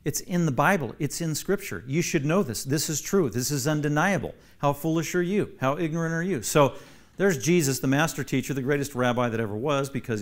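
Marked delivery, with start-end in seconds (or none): 0.0-6.4 insulting rebuke. Acted. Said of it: "insult the Pharisees who thought they knew everything".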